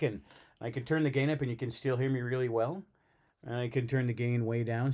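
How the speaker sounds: distant from the microphone; far from mic. Shown as a demonstration. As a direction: speak from way back. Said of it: "so I can go way back".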